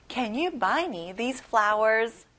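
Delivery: very slow, carefully spaced sentence; slow model sentence. Shown as a demonstration. Teacher reading a model line slowly for the class. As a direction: say it slowly so the class can follow. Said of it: "Now, it's your turn".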